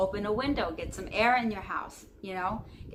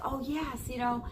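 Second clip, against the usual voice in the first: higher-pitched, lightly acted cheer; mock upbeat; 4 semitones higher than usual. Host imitating herself getting on here every day, mock upbeat. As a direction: put on a perky "everything's great" voice. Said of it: "I get on here so upbeat".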